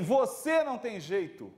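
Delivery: slow condemning lecture, punching você; harsh teacher. Retold or imitated. Harsh teacher condemns a pupil: slow mock scorn, você stressed. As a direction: write the pupil off slowly. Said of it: "Diferente de um professor que diz assim".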